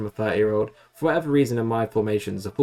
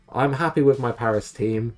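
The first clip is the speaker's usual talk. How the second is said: upbeat claim he doesn't mean; mock cheerful; 3 semitones higher than usual. Shown as a demonstration. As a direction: say it brightly, as if content. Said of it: "I say that".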